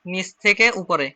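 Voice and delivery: drawn-out নিচ থেকে উপরে as the pen moves; slow demo. Shown as a demonstration. Teacher writing on the board for students, slowly. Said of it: "এটা দেখেন, আমি এখানে লিখে দিচ্ছি".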